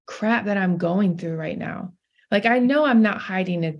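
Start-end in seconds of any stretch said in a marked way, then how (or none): 0.0-1.9 exasperated inner thought. Retold or imitated. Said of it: "I'm like".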